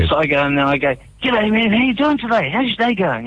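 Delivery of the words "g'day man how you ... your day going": high, chirpy customer hello; happy greeting. Retold or imitated. Regular customer greeting the dairy owner, happy and high. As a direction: act out an upbeat greeting, pitched well up. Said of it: "I'm all, like, happy".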